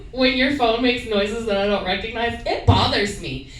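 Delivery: lightly sing-song, innocent; asking boyfriend casually while fishing for answers; faux-casual fishing. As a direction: pretend it's no big deal. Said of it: "I'll walk into the room".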